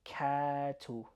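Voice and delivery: katu with the first vowel held; katu, drawn-out "kaa"; long emphasized a. Shown as a demonstration. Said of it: "I'm trying to emphasize here".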